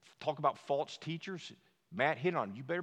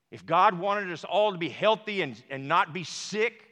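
rising higher and louder, full force; building preaching fervor; 8 semitones higher, 12 dB louder than usual. Real, not acted. Pastor to congregation, building to a fervent shout.

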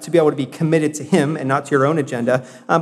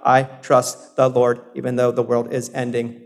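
spiritual robot; 5 semitones lower than usual. Acted. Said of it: "wasn't like a spiritual robot".

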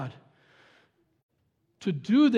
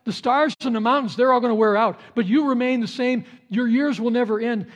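quoted psalmist; 3 semitones higher, 5 dB louder than usual. Retold or imitated. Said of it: "He says".

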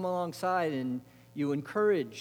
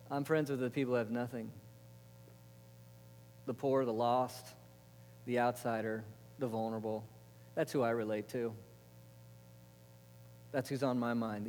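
lower, softened voice of God; softly sincere; 5 semitones lower, 9 dB quieter than usual. Acted. God naming the poor as his friends, softly sincere. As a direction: say it gently low, as a quiet confession.

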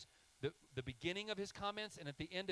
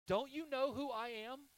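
much higher and louder, ringing rhetorical question; emphatic shout; 12 semitones higher, 7 dB louder than usual. Acted. Preacher voicing God's challenge to Moses, loud and high. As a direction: build to a loud, high cry on "know".

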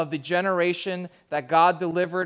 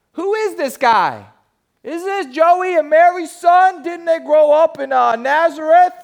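loud, high-pitched mock Jersey accent; hammed-up Jersey skeptic, loudly incredulous; 11 semitones higher, 10 dB louder than usual. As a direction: put on a brash Jersey accent. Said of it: "This is my Jersey accent".

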